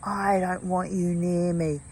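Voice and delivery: mild mock scream, words stretched out. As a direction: imitate a distressed woman's cry without really screaming. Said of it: "the young woman screaming".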